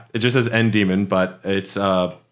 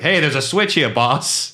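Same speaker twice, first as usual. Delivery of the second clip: lightly voiced surfer-bro demon, pitched up; a hint of skateboard bro, higher than usual; 4 semitones higher than usual. Demon pointing out a switch, lightly voiced surfer bro. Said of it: "he sounds like a surfer bro".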